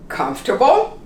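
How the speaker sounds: Comfortable said as comf-ta-ble; three syllables. Shown as a demonstration. Teacher showing the reduced form. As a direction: drop the middle vowel in Comfortable. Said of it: "We don't say comfortable".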